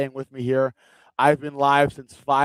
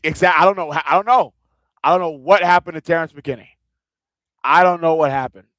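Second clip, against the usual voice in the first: laughing; 4 semitones higher, 8 dB louder than usual. Real, not acted. Laughing at McKinney's collapse.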